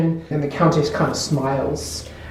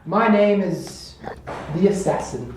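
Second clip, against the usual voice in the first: gloating Countess; 3 semitones higher than usual. Acted. The Countess reveals herself as the Assassin, grandly menacing. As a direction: savor the reveal, slowing into the challenge. Game master plays villain's reveal.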